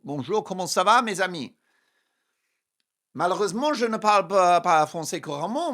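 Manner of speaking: French. Shown as a demonstration. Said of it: "connect with my French viewers".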